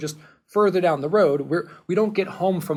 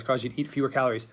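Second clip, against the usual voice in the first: fast emphatic repeat; 3 semitones lower, 4 dB quieter, much faster than usual. Real, not acted. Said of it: "let's be very, very clear".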